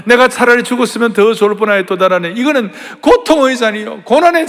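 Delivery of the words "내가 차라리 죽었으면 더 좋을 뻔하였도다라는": crying lament. Acted. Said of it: "근데".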